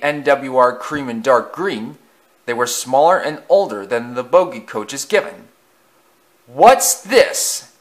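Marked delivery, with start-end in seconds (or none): 6.5-7.7 hissing. Acted. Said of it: "he hissed".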